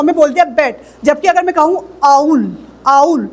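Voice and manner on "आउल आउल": आउल with a glide from आ to ऊ; आउल said as आ moving to ऊ; diphthong demo. Shown as a demonstration. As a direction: stretch आउल to show the glide. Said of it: "आ और ऊ दो sound".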